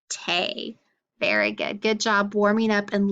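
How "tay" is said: "tay", tape with no p at the end; final sound dropped. Shown as a demonstration. Teacher showing tape without its last sound, final sound dropped. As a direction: leave "tay" open, without the closing p. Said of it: "Tape without the P is just".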